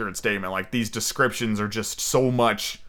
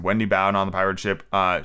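plain reading voice

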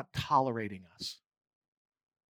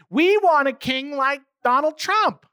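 much higher and louder, a mocking nasal whine of demanding people; mock the crowd begging for a human king; petulant crowd demanding a king; whining complainers; 9 dB louder than usual. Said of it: "the people who are whining and complaining".

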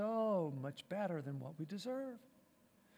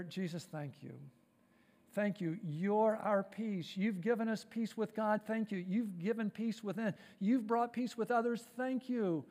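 prayer. Acted. Pastor prays aloud to Jesus.

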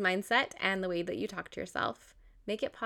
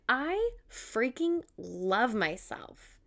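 sincere self-love; much slower than usual. Retold or imitated. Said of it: "where you're like".

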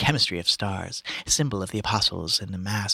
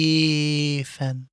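calling; 6 semitones higher than usual. A narrator's reading. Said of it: "calling after me, calling".

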